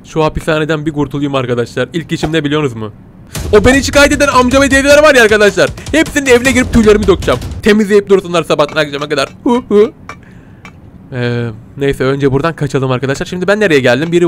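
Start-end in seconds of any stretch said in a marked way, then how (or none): 3.5-9.9 fast, high, scheming glee; mock villain glee; gleeful revenge plan. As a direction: plot mischief with relish. Cat plots revenge on neighbours.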